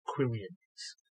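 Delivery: Quillians said with an extra "ee" sound before the ending; wrong pronunciation. Shown as a demonstration. Sword expert shows the mistaken form, Quillians with an extra I. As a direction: say Quillians in three syllables, drawn out slowly. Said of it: "There's no second I".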